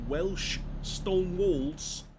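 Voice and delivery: high, very drawn-out fake Welsh; failed Welsh accent. Player pointing out stone walls, in a high bad Welsh accent. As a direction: attempt a Welsh accent, stretching each word. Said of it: "Can't do a Welsh accent".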